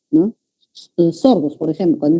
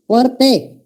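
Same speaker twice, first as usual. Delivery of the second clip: mock student call; 5 semitones higher than usual. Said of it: "me dirá alguien".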